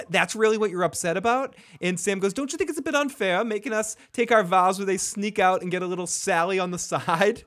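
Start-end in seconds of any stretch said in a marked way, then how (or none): 0.1-1.6 higher-pitched mock disbelief; retold incredulity. Jon asks Sam, retold incredulity. 2.3-7.4 higher-pitched indignant appeal; retold complaint. Sam protests the vows to Jon, retold complaint.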